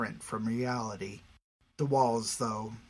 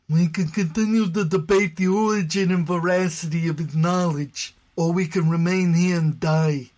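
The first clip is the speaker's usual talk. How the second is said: higher, louder, fast insistence; commanding leader; 4 semitones higher, 6 dB louder than usual. Acted. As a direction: press the point urgently. Spiro takes charge.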